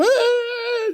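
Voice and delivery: put-on long, high-pitched old man's wail; mock crying wail. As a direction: wail like an old man bawling. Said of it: "o velho chorando é feio com força". (choro de velho imitado, bem agudo)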